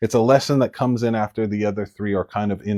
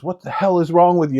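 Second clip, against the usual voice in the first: mild, higher-pitched mock snap; mother snapping; 5 semitones higher than usual. Mother in an ugly moment at her child, mild snap. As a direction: snap at a child, lightly acted. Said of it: "She snaps and she treats you".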